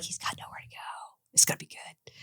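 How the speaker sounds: barely audible whispered aside; whispered thought. Retold or imitated. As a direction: whisper it privately to yourself. Retold private thought while he smokes.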